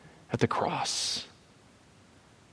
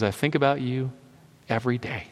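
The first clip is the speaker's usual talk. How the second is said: softly voiced, lower tender answer; tender retold reply; 4 semitones lower, 5 dB quieter than usual. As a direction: lightly act a gentle, hushed reply. Voices Pooh's tender reply to Christopher Robin.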